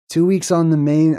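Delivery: put-on half-hearted Australian accent; a brief, faltering try at Australian. Testing the movie line, half-hearted Australian accent. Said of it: "about to do an Australian accent".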